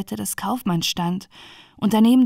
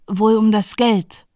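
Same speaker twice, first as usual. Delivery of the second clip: slow, deliberate answer; lightly voiced second brother; 4 dB louder, slower than usual. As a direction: draw the answer out slowly. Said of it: "sagte der zweite Bruder".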